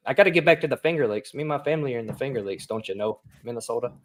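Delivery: put-on a light, quick Minnesota accent; tossing off a hint of Minnesota accent. Mimicking a sitcom character in a light Minnesota accent. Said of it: "the Minnesota accent".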